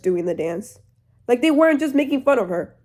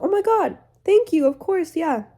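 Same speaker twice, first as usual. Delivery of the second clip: gushing Elphaba; 7 semitones higher than usual. Retold or imitated. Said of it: "Elphaba's like".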